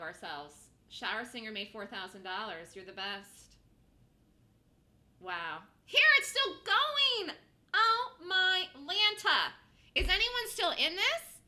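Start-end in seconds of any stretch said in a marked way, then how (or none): 5.9-11.4 slow, high, loud disbelieving cry; excited shout. Real, not acted. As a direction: call it out as the price runs on. Price keeps running, high excitement.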